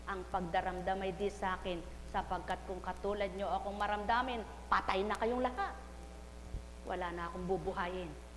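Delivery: voice of the Father. Acted. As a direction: speak as a patient father to his child. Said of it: "Anong habili ng Ama?".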